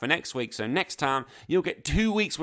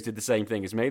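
ordinary talk, nothing marked

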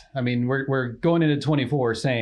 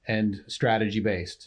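slowly for note-takers. Shown as a demonstration. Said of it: "say them again slowly".

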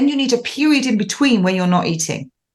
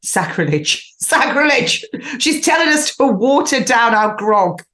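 mock outraged listeners; 4 semitones higher than usual. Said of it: "throwing things at the speaker going".

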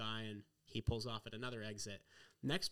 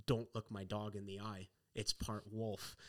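grim warning; 4 semitones lower than usual. Retold or imitated. Driver's grim warning retold.

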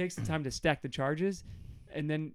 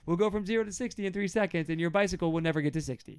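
high, incredulous rant, pushed louder; mock indignation; 7 semitones higher, 3 dB louder, faster than usual. God mocking Israel's poor choice, high indignant rant. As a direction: scoff through it in a raised voice. God's acted slam, car against bicycle.

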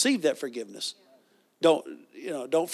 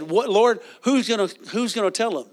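alarmed cry; 4 semitones higher than usual. Retold or imitated. Pastor recalls asking Jesus, alarmed.

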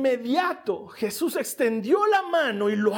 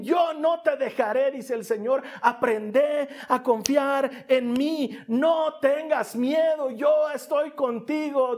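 fervent; 4 semitones higher than usual. Acted. Preacher voicing God urging Peter not to fear, fervent. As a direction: build it with passion, slowing down.

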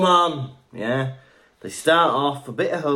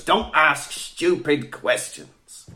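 slow put-on retort; Hagrid; much slower than usual. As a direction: snub the pupil with drawn-out words. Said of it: "And Harry goes".

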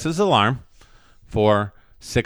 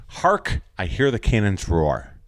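dramatic stage line; 4 semitones lower, slower than usual. Acted. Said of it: "And his line is".

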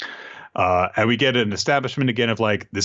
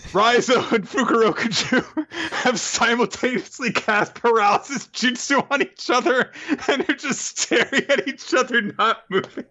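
mock narrator; 13 semitones higher than usual. Continues in put-on high voice.

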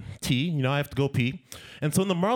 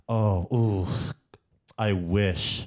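hesitant, drawn-out polite regret; stalling, regretful brush-off full of hums; reluctant letdown; 3 semitones lower, slower than usual. Acted. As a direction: let them down gently with sighing oohs and pauses. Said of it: "how to just be like".

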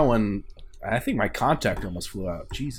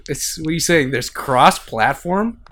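mock amazement; 4 semitones higher than usual. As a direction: feign shock, then whisper the end.

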